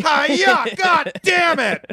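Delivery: high shrieking kung fu yell; martial arts yell. Retold or imitated. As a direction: scream it like a movie fighter. Acting out movie fight shouts.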